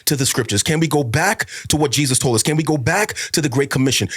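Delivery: fervent, pleading sermon cadence; impassioned preaching. Real, not acted. Pastor urging brothers and sisters back to scripture, impassioned preaching. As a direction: drive each repeated appeal home like a preacher.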